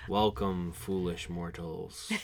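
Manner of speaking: slow, hushed theatrical villain menace; spooky ghost host. Pretend. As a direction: greet them like a haunted house ghost. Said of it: "We're getting a little spooky".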